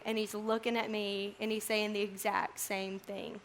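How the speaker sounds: quiet, earnest reassurance to the listeners; tender, sincere. Real, not acted. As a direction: let it sink in softly. Preacher brings the message home tenderly.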